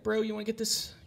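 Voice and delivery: high, wheedling bro-talk sales pitch; hammed-up pushy phone collector; coaxing collector. Acting debt collector sweet talk.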